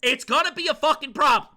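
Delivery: building into a high, furious shout; full-volume ranting threat; mad. Real, not acted. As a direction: explode with rage, pitch way up. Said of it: "I'm allowed to be mad".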